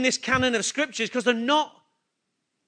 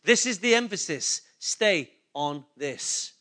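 measured word from God, slowing at the end; a hint of God speaking, unhurried; God's voice, lightly voiced; 8 semitones lower, slower than usual. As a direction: give God's instruction calmly, settling lower and slower. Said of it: "God saying".

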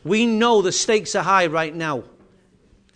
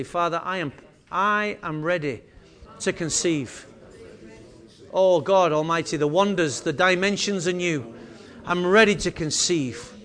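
soft prayer; 3 dB quieter than usual. Real, not acted. Pastor leading people with hand on heart, soft prayer. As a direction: pray it softly and deliberately, phrase by phrase. Leads congregation in quiet prayer.

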